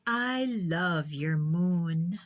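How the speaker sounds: slow, gentle praise with a smile; slow teacher's smile in the voice; smiling. Acted. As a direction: praise her tenderly, taking your time. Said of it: "she said, smiling".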